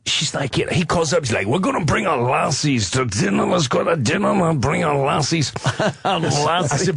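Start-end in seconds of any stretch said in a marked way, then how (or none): 1.5-5.5 mock Newcastle accent; imitating a Geordie inviting friends to dinner; light Geordie impression. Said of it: "which is like our Alabama".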